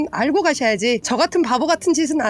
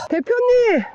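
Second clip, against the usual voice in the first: pleading call; 8 semitones higher, much slower than usual. Real, not acted. Calling boss for help.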